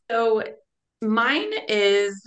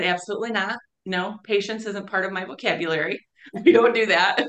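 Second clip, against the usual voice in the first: playful refusal; faster than usual. Retold or imitated. Speaker refusing Father's advice, laughing and defiant. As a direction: refuse with a cheeky grin. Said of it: "And I said".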